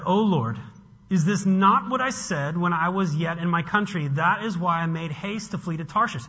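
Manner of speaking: mildly acted angry protest to God; rebuke. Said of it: "This is his rebuke".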